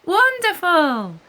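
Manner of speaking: slow, high, loud cry; shout. A narrator's reading. Wonderful shouting as they race to the sea, loud shout. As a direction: stretch it out with glee. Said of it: "shouts Wonderful".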